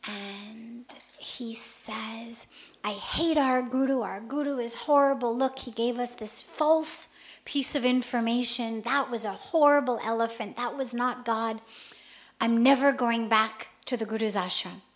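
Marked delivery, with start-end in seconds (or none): 2.8-14.8 louder, bitter complaint against the teacher; angry outburst. Retold or imitated. Injured disciple rails against his guru, loud and bitter. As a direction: vent the betrayal with heat.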